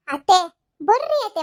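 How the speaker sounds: pleading loud call to come away; urgent call. Acted. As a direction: call her out of the quarrel. Daughter-in-law pulls aunt away.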